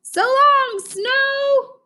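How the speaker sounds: high, slow honking goose voice; honking geese. Acted. Geese announcing their flight south, high honk. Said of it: "honked the geese".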